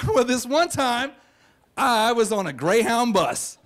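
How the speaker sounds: slow, drawn-out story opening; hammed-up storytelling. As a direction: stretch it out like a practised raconteur. Retells his showy story opening.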